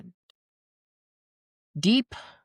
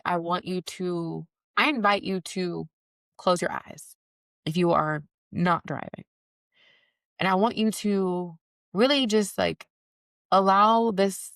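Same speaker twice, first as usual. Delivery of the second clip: guided reflection; slower than usual. Acted. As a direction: ease them into stillness slowly. Leads listeners into reflection.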